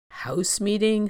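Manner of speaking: skeptical, mocking question; scoffing. A narrator's reading. Skepticism mocks the idea of meeting, scoffing. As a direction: scoff the words back in disbelief. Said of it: "Skepticism scoffed".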